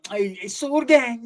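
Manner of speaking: slow put-on chola voice; mock gang girl. Mocking a gang girl, slow put-on voice. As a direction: ham up a gang-banging girl.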